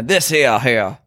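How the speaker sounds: put-on Louisiana drawl; lightly mocked Louisiana accent. Host offering a sample, mock Louisiana accent. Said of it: "You have Louisiana".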